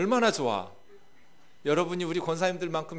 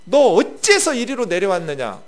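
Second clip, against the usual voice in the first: louder, sharp big-brother rebuke; angry scolding; 3 semitones higher, 8 dB louder than usual. Acted. Eldest brother Eliab angrily confronting David. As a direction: scold the little brother for coming. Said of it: "막 분노하면서 화를 내면서".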